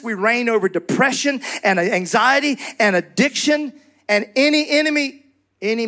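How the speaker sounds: rising sermon fervor; fiery pastor building the congregation up; preaching. Acted. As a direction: preach it with conviction. Preaching at full force.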